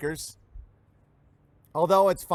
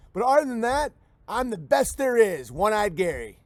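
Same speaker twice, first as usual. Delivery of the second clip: louder, raised mock redneck boasting; One-Eyed Gary; 3 semitones higher, 3 dB louder than usual. Handyman One-Eyed Gary pitching himself to the customer, hammed-up boast. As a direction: brag like a hopeless handyman selling himself. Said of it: "the whites are like".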